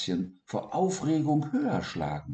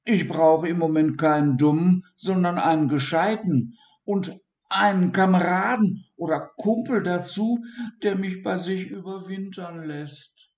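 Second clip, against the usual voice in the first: high, louder little dormouse pleading; Siggi voice; 10 semitones higher, 5 dB louder than usual. Acted.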